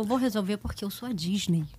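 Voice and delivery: low, soft, reassuring promise; imitating sweet staffer. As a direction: play the kindly helper, hushed and low. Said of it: "um cast member super fofo".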